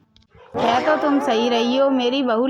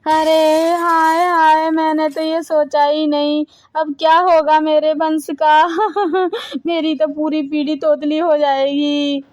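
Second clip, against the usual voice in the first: dramatic wail; 3 dB louder than usual. Acted. Mother-in-law loudly lamenting her family line.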